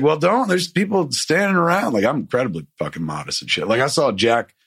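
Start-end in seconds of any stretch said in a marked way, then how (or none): 0.0-1.9 high, embarrassed pleading; flustered protest. Retold or imitated. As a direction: beg her to stop, flustered and mortified.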